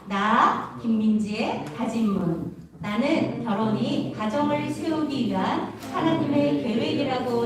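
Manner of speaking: slow, measured recitation of a pledge; slow pledge reading. Acted. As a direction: read it like a solemn vow. Reads pledge aloud. (천천히 다짐문 낭독하듯)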